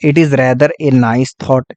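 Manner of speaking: each word spaced out slowly for notes; measured dictation pace. Shown as a demonstration. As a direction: read it out slowly so students can copy it down. Teacher dictating an example sentence.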